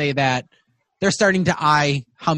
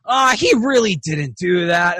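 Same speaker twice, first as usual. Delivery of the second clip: higher, slow dwarf objection; dwarf butting in; 4 semitones higher, slower than usual. Acted. Second dwarf disputes the tale, drawn-out and high. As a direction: scoff slowly in a dwarf voice. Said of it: "the extra one's like".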